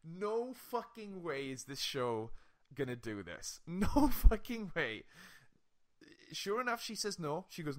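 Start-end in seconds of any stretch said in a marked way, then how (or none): 0.0-5.0 drawn-out, emphatic no way; slow, stunned disbelief building to a laugh; mock outrage at the show; incredulous outburst. Disbelief at the show's twist.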